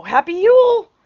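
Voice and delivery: high, loud, sing-song holiday wish; cheeky greeting. Retold or imitated. Wife springs the gift on husband, high and bright. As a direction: present it with a flourish. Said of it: "I go".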